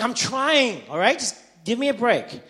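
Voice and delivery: loud, high retold protest; exasperated retort. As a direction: act out a fed-up dad yelling back. Dad snaps back at heckling son.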